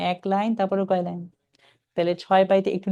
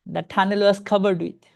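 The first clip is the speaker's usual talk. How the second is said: very slow, each word drawn out; deliberate teacher read; slow reading demo; much slower than usual. Shown as a demonstration. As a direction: model the phrase slowly for students. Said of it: "ব্রেনে মনে মনে চিন্তা করতে হবে".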